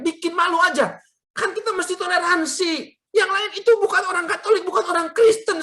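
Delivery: high-pitched exasperated protest; retold scolding. Son retelling scolding mother after the ride, exasperated.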